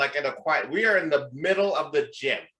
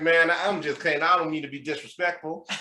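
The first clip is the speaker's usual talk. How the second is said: slightly raised imitated Southern voice; Southern accent; 3 semitones higher than usual. Gym stranger excusing his remark, Southern accent. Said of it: "with Southern accent".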